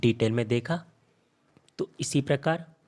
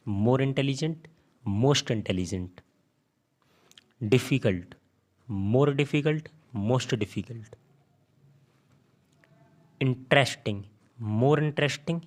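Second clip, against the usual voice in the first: slow dictation; slower than usual. Shown as a demonstration. Teacher dictating example forms slowly.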